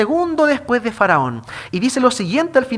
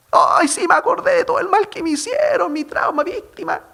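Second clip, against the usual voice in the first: mocking self-pity; 11 semitones higher than usual. Preacher mocks a self-pitying José.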